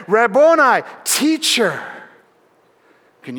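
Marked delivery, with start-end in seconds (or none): 0.1-1.8 a glad cry, higher and louder; joyful cry. Acted. Mary crying out to risen Jesus, joyful outcry. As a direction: cry out Rabboni in sudden recognition. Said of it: "in her joy she cries out".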